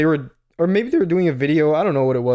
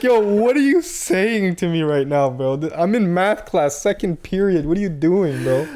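mock shocked protest; 3 semitones higher, slower than usual. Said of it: "I'm like".

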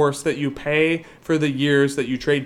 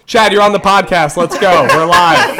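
calling out; 4 semitones higher, 11 dB louder than usual. Real, not acted. Calling out to guest.

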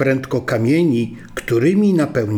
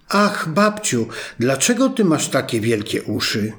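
put-on wondering little girl. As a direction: let the surprise open the question. Girl questioning disguised wolf.

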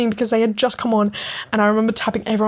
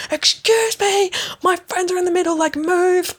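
pushy plea; 9 semitones higher than usual. Retold or imitated. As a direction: demand a way through the crowd. Pushing through crowd, calling out.

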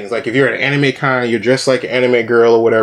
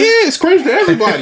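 emphatic; faster than usual. Real, not acted. Insisting, high and fast.

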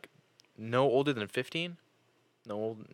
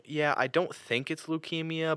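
lightly voiced doctor, slow and higher-pitched; imitated doctor; 8 semitones higher than usual. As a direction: mimic an offhand, tactless reassurance. Imitating doctor's offhand reassurance.

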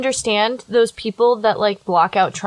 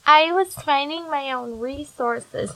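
mocking excuse; 3 semitones higher, 4 dB quieter, slower than usual. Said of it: "mocking a mother's excuse".

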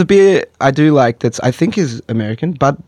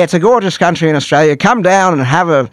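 tourism ad voice; 2 semitones higher than usual. Pretend. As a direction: sell the country like a cheesy ad. Mock Australian tourism ad.

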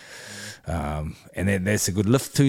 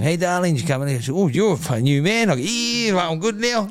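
much higher, hammed-up cheery voice; mock chirpy new man; 11 semitones higher, 4 dB louder than usual. Husband acts out waking up cheerful to wife. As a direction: play the refreshed husband, high and bright.

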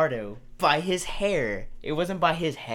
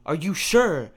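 suspicious mom; 5 semitones higher, 5 dB louder than usual. Retold or imitated. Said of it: "She's like".

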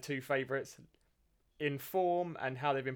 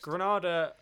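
whisper; 5 semitones higher, 4 dB louder, slower than usual. Pretend. Dramatic hushed team name.

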